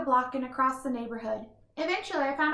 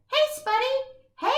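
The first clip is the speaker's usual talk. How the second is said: higher, slow, stretched greeting call; cheery drawn-out hello; 12 semitones higher, 4 dB louder, much slower than usual. Acted. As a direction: call out to a buddy on screen. Greeting friend on live stream.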